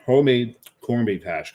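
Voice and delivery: chewing while talking; mouth full. Real, not acted. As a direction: speak around food in the mouth.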